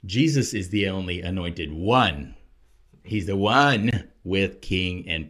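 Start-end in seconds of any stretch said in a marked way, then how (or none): 0.0-2.4 "one" stretched and punched at the end; stress on ONE. Shown as a demonstration. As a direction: build to a weighty "one". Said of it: "we should emphasize the word one".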